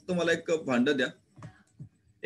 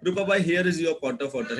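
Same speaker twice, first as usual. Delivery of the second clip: louder, higher handing over; lightly voiced Rupabai; 4 semitones higher, 4 dB louder, slower than usual. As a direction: offer the pot proudly.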